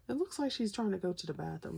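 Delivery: giggles breaking into the words; laughing while talking. Real, not acted. Telling viewers about the vase picture, laughing through it. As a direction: try to say it but keep laughing.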